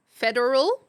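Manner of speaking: Federal said fully, all three syllables; careful federal. Real, not acted. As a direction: clearly say fed-er-al, not feral. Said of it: "Did you say feral government?".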